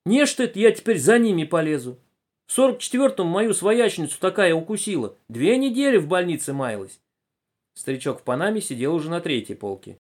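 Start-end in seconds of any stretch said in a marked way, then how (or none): 0.0-7.0 high-pitched peasant complaint; lamenting old farm woman. A narrator's reading. Collective-farm woman frets to nobody in particular, lamenting. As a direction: fret aloud in a high voice. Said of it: "Пожилая колхозница сетовала".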